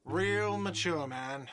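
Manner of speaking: high, slow whiny yell; whiny shout. Acted. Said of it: "a whiny voice shouts".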